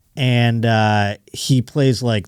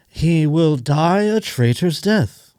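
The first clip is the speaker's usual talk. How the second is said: movie villain; 4 semitones higher, much slower than usual. Retold or imitated. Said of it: "like, the bad guy in The Patriot".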